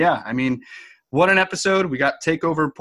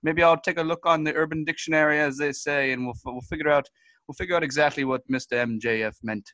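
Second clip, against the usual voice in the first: a lightly raised, folksy Canadian guest voice, rambling; goofy Canadian correspondent; 2 semitones higher than usual. Acted. Correspondent Todd Hardo phones in to the news desk, folksy and rambling. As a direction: play a dim, friendly hoser reporter.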